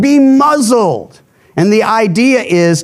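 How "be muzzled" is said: commanding rebuke. Acted. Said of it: "He'll speak to the wind and waves".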